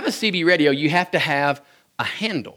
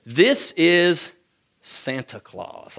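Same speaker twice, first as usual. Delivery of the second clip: Santa on the radio; much slower than usual. Retold or imitated. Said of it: "the voice on the other end".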